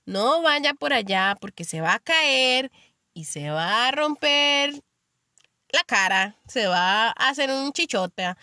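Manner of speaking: slow, drawn-out motherly warning. Retold or imitated. Mother warning her little one of a fall, drawn-out warning. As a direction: stretch out the threat like a cautioning mum. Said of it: "una mamá que le dice al chiquito".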